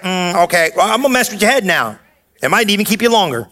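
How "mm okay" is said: unimpressed mutter. Retold or imitated. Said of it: "that little attitude like".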